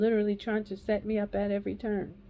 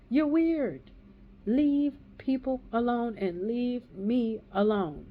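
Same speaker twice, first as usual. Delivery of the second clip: exasperated telling-off; 3 semitones higher, slower than usual. Real, not acted. Telling off the man who hunted her down, exasperated. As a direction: tell him off, then slow down for emphasis.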